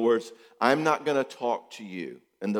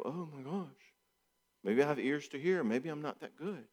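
mock self-doubt; 4 semitones higher, 8 dB quieter than usual. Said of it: "I might go".

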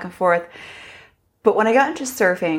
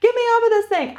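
imitating a scared plea. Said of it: "crying to get off".

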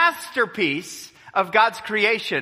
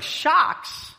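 shocked whisper; 9 semitones higher than usual. Retold or imitated. Father shocked at shark warning.

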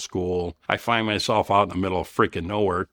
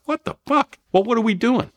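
much higher, louder mock outcry of disbelief; bewildered outburst; 5 dB louder than usual. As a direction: yell it out, lost and exasperated under fire. Under rocket fire, bewildered.

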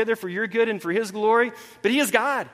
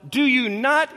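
slow, higher, incredulous scolding; exasperated Jesus; 4 semitones higher than usual. Retold or imitated. Jesus to his clueless disciples, acted exasperation. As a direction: act out being at your wits' end. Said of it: "hitting his head against the boat".

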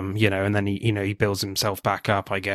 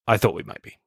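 deadpan; faster than usual. Retold or imitated. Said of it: "so deadpan and dry".

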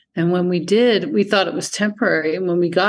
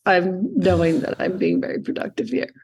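lazy relaxed voice. Retold or imitated. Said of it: "productive is like".

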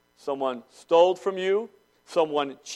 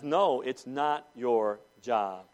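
God gently correcting; 5 semitones lower, much slower than usual. Retold or imitated. God telling the vengeful believer, slow and calm. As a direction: calmly set them straight. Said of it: "And God says".

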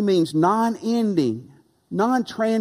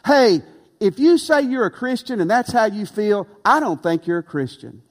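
rising challenge; 4 semitones higher, 5 dB louder than usual. Real, not acted. Preacher confronts lukewarm Christians.

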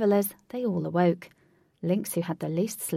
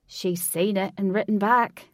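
loud, delighted announcement; gleeful; 7 dB louder than usual. A narrator's reading. Alec sees his bird return, gleeful. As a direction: burst out with glee. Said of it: "Alec said with glee".

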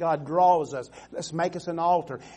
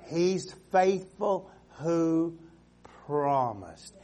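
faithful drawn out slowly; slow emphasis; much slower than usual. Acted. Preacher dwelling on God's faithfulness, slow. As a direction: stretch faithful, let it land.

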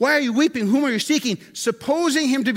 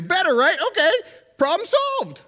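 mock relief; 7 semitones higher than usual. Mock relief after Jesus appears.

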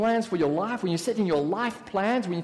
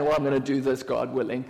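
flippant; 8 semitones lower, faster than usual. Retold or imitated. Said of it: "very flippantly saying".

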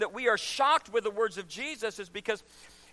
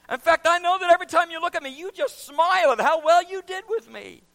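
loud, smug self-praising prayer; proud Pharisee; 3 semitones higher, 6 dB louder than usual. Acted. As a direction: brag to God like a proud Pharisee. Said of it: "a proud Pharisee who was standing there praying".

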